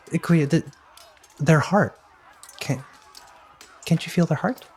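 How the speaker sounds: high in-character questioning; Robinson. Acted. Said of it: "Robinson's in your ear saying".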